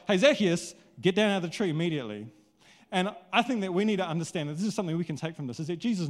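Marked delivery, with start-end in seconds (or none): 0.1-2.3 louder, direct personal call; calling by name. Shown as a demonstration. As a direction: call him down by his name. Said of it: "It's like".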